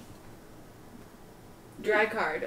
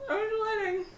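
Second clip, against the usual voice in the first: softer second "I'm sweating"; quiet, repeating "sweating"; 9 dB quieter than usual. Real, not acted. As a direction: drop the volume on "sweating".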